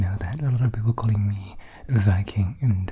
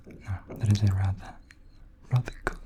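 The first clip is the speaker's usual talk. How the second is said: softer second try at Welsh accent; retry the unpractised Welsh accent, more softly; 6 dB quieter than usual. Shown as a demonstration. Correcting his own attempt for viewers, tentative Welsh accent. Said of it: "I haven't really practiced Welsh".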